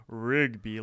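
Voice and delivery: "Rigby" slowed and set apart; "Rigby" drawn out with pointed emphasis; air-quoted emphasis. Shown as a demonstration. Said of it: "as if there's air quotes there".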